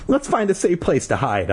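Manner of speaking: restrained shout over wind; mock shout. A narrator's reading. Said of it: "shouting over the roar".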